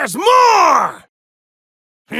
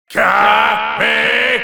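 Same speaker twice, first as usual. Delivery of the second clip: low crying battle shout; 5 semitones lower than usual. Acted. Battle cry in fight game.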